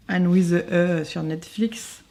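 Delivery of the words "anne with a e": English words in a French accent. Real, not acted. Vlogger cites the Netflix series, French-accented English. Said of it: "Pardonnez mon accent anglais".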